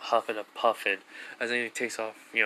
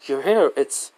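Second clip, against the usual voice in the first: higher, louder startled reaction; retold startled surprise; 4 semitones higher, 6 dB louder, slower than usual. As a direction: act out being taken aback. Retold startled reaction to changed hair.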